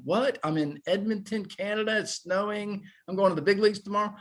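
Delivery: retelling the stunned rookie moment, fast and high; stunned disbelief. Retold or imitated. Player recalling the big-league call-up, amazed and rushed. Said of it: "You're going".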